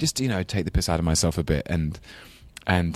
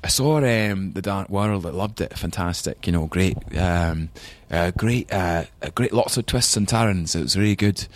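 put-on Scottish accent. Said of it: "still speaks with a Scottish accent".

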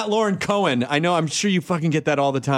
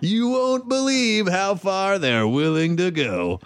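slow, drawn-out teaser read; hammed-up radio promo, stretched out slowly; mock promo voice; slower than usual. Mock radio announcer riffing on her.

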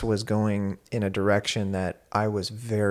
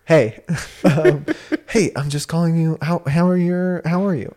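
loud, high-pitched, stumbling greeting; jumbled, spun up; 8 semitones higher, 8 dB louder than usual. Retold or imitated. Calling partner with a racing mind, jumbled. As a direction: act out a scattered, wound-up caller. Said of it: "jumbled, and, like, my mind is just, again, going so fast".

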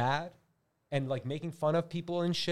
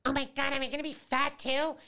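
put-on high, alarmed girl's question; scared girl's voice; 11 semitones higher than usual. Daughter seeing her dad, high and alarmed. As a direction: ask it in a high worried girl's voice. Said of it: "she goes like".

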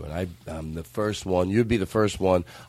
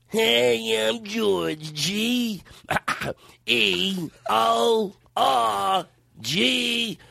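much higher, slow, wailing spelling; high squeaky voice; 12 semitones higher, much slower than usual. Shown as a demonstration. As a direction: squeak it out like a cartoon. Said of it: "re-doing the intro, high voice".

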